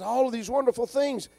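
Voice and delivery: promise, promise, then the turn, growing loud; voicing Jesus. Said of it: "Jesus says".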